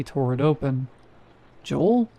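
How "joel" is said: urgent call. Acted. Calling again, more urgently.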